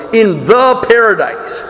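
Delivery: "the" stressed before "paradise"; stress on the article. Shown as a demonstration. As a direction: lean into "the" in "in the paradise". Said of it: "has the article".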